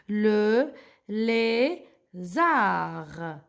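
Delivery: long, separate syllables in "Le, les arts"; teacher slowly sounding out "arts" as zaar; silent final D. Shown as a demonstration. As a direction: end "arts" on the R, no D or S. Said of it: "Le D, je le prononce pas".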